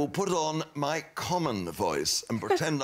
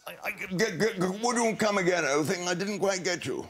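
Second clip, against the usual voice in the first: stammering put-on common voice, slightly raised; disguised common voice; 3 semitones higher than usual. Cricket commentator fobbing off a fan, in a stammering disguised voice. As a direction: play baffled in a put-on voice.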